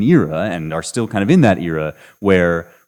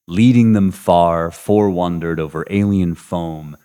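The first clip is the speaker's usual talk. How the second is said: verse reading; 4 dB louder than usual. Shown as a demonstration. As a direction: read it out like a poem. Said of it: "this would give the very Virgilian quality".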